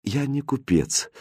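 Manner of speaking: composed, measured king; calm reply. Acted. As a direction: answer quietly without rising to it. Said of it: "спокойно ответил король".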